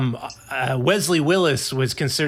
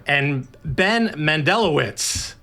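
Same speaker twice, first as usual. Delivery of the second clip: podcast host voice; 3 semitones higher than usual. Pretend. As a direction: ham up the show intro, lingering on guest names. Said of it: "sorry to switch to podcast, uh, voice guy".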